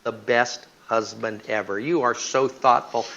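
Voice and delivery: a hint of a gushing wife with a laugh. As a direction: gush a thank-you through a laugh. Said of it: "She says".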